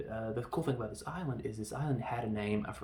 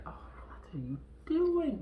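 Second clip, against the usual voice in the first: mock film quote. Voices amorous scene in film.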